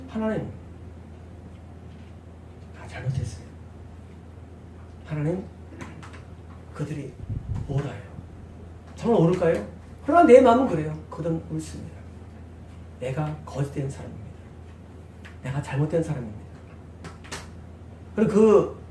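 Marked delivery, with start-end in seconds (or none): 0.1-8.1 much softer, lower confession; retelling his own prayer of repentance, very soft; hushed prayer. Retold or imitated. 11.1-16.4 quiet confession. Retold or imitated. Confessing in prayer.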